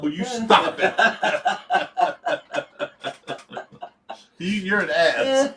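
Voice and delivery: helpless giggly objection; real laughter breaking through a plea; laughing protest. Real, not acted. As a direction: protest while cracking up. Teased by friend, laughing.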